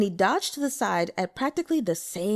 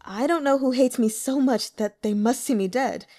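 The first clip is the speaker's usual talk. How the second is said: bitter smile; 4 semitones higher, 4 dB louder than usual. Acted. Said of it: "with a bitter smile".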